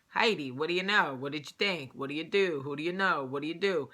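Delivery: mimicked Jersey Italian patter; Italian Jersey accent. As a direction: talk like an Italian cousin from Jersey.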